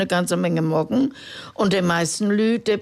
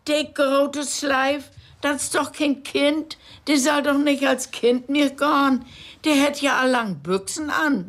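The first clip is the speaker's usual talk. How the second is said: railwayman voice; 7 semitones higher than usual. Acted. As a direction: lay down the rule like a clerk. Railwayman objecting.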